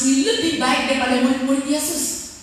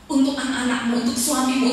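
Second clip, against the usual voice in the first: normal talking voice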